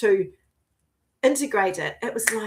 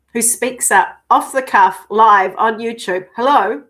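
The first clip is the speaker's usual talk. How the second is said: louder with each phrase, proud; cheering herself on, getting louder; proud loud build; 2 semitones higher, 8 dB louder than usual. Real, not acted. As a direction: build to a triumphant "Hello?".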